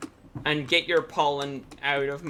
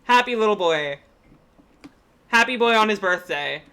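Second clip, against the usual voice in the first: fond high-pitched cooing at a cute fish; 7 semitones higher, 8 dB louder, faster than usual. Real, not acted. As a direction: gush over the happy little creature in a much higher voice. Cooing at a game creature.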